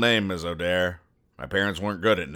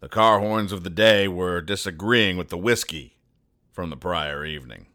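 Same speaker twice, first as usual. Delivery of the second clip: noir detective. Acted. Noir private eye narration.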